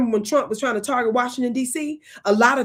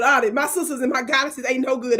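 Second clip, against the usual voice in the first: ordinary talk, nothing marked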